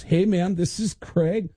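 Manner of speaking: lightly voiced Lars, casual; Lars impression. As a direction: play Lars showing off his friend. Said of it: "he goes".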